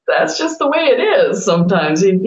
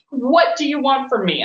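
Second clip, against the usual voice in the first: mock scream; 5 semitones higher than usual. Coach pleading with Spirit, mock exasperated scream. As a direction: plead in a mock yell, pitched up. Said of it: "I'm screaming at them".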